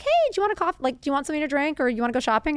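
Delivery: sugary high mom voice, suddenly sweet; imitating her mom. Imitating her mom offering coffee after a screaming fight, sugary and high. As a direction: play it sweet, as if nothing happened. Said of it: "come back and be like".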